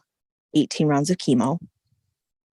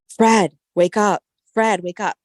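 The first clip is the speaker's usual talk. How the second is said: urgent wake-up call; 4 semitones higher than usual. Retold or imitated. Wife urgently rousing her husband, calling his name. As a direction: shake him awake with your voice.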